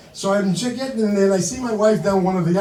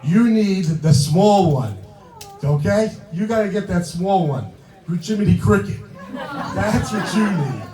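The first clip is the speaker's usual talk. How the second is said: loud insistent wife; 6 dB louder than usual. Retold or imitated. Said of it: "My wife goes".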